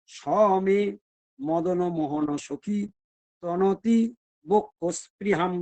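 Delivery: slow solemn Sanskrit chant; sloka recitation. Acted. Preacher reciting Radha's verse to the assembly, slow intoned.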